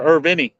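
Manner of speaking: IRVINI with an added "ee" ending; Italian-style pronunciation. Shown as a demonstration. Joking about a third option, Irvini Italian-style. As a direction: say Irvini, ending in "vee-nee". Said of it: "like, Italian or French".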